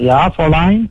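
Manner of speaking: brisk mock German accent. Caller obliging a flirty woman, German accent. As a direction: address her in a put-on German accent. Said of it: "Tu peux me faire l'accent allemand".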